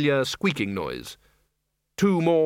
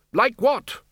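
indignant high "like what"; 11 semitones higher than usual. Acted. Arch-Chancellor balking at being told to stop swearing, incredulous. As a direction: pitch shooting up in disbelief.

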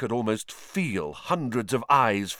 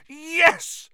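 triumphant cry. Acted. Harry catches the snitch.

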